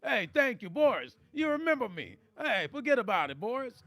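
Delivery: lightly voiced nervous New York comic; a hint of a jittery old-school standup; Rodney Dangerfield. Teasing Joe in a mild Rodney Dangerfield voice. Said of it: "Rodney Dangerfield".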